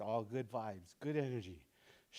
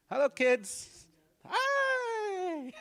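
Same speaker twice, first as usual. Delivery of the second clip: put-on high, bright kids' show greeting; kids' show host; 7 dB louder, much slower than usual. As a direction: greet the little ones like a TV host. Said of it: "turns into a children's show".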